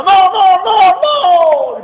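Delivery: high, loud cries of no from a nightmare; panicked screaming. Retold or imitated. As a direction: scream no in terror, crying out. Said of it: "se despierta gritando". (grito aterrado de pesadilla)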